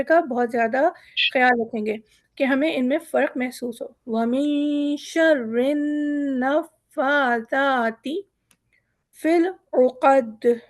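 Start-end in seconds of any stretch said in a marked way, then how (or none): 4.1-10.6 शर्रिन and नफ़्फ़ासाती with doubled नून and फ़ा, slow; many shaddas. Shown as a demonstration. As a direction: stress each shadda in नफ़्फ़ासाती. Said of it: "यहाँ पर बहुत सारे तशदीद हैं तो इसे ज़रा गौर कीजिएगा". (तशदीद पर ज़ोर देकर)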